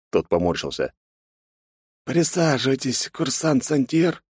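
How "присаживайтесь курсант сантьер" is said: higher, slow and measured, like a suave interrogator; slow, polite order. Acted. Interrogator inviting the cadet to sit, slow cool order. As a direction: draw the name out coolly, in command. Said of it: "приказал мне".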